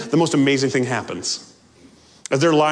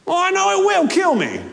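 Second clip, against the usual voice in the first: much higher anguished wail; despairing ghost. Acted. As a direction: cry out that it will kill you.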